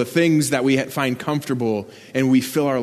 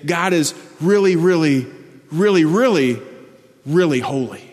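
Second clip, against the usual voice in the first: a hint of an insistent child, slightly higher; lightly voiced child; 4 semitones higher than usual. Child trying to describe God, lightly imitated childlike insistence. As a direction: pile up each "really" like a child reaching for words. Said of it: "like a child trying to describe God".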